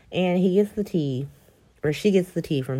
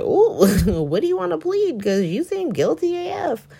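higher, giggly ditzy tone; bubbly and clueless; mock ditzy lawyer; 10 semitones higher, 4 dB louder than usual. Lawyer asking Spencer his plea, mock ditzy. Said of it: "she was like".

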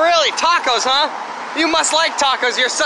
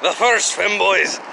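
slow Scottish declaration; a hint of a proud Scot; lightly put-on Scottish accent; 4 semitones lower, slower than usual. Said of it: "were the Scots".

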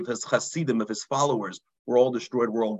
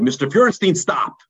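loud cry of stop, louder than the telling; retold scream; 6 dB louder than usual. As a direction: call out sharply to stop him.

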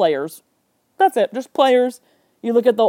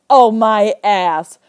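slow, louder mock exclamation of disbelief; drawn-out scoff; 7 dB louder, much slower than usual. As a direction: stretch it out, calling nonsense. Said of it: "out loud".

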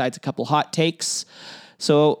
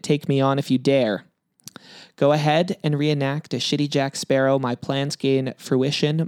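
lightly dramatic poem reading; reading a poem aloud. Acted. Host reading the bandit's rhyming email to his cohost, lightly dramatic. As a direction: read the rhymes out like a mock threat.

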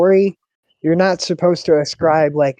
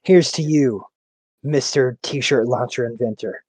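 measured, low-key commercial announcer; slow, deliberate ad-style toast; beer commercial announcer; 4 semitones lower, 4 dB quieter than usual. Retold or imitated. Friend recalls a favorite beer commercial, measured announcer read. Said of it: "Fucking Budweiser commercials".

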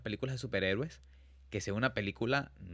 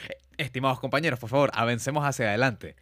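mock formal grave voice; 5 dB louder than usual. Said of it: "le dices con la voz grave".

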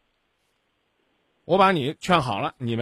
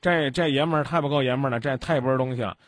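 meddling sneer; 3 semitones lower than usual. Retold or imitated. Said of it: "先跟你媳妇儿说".

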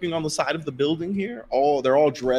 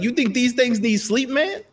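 a lightly voiced thug, high and scoffing; mocking goon; 11 semitones higher than usual. Goon scoffing at the tired player, pointing at the Warforged, high and mocking. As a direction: scoff at the idea of sleep. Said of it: "He's like".

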